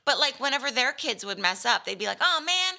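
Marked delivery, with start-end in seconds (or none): 2.2-2.8 mock groan. Parents groaning at misses.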